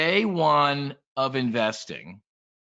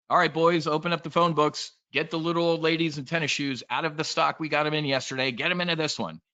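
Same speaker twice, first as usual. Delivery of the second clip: higher, brash order to the sales floor; boiler-room boss; 5 semitones higher than usual. Retold or imitated. Imitating a Wall Street boss ordering his brokers, brash. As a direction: bark orders like a sleazy broker boss, lightly. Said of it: "Bud Fox, Charlie Sheen".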